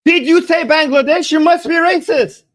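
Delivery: hammed-up cry of racism; mock accusing yell. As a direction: shout it like a scandalised accuser. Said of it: "And even you're like".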